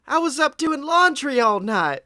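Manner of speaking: lightly voiced wife; a touch of a wife explaining; Peggy voice. Wife explaining to AJ, lightly voiced. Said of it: "what Peggy's voice sounds like".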